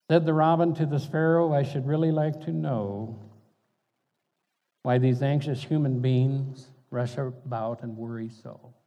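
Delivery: gentle poem reading, robin and sparrow trading lines; poem recital. Acted. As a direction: read the poem like a small fable.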